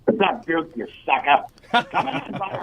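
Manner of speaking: caller over the phone line. Real, not acted. I have him on the line right now.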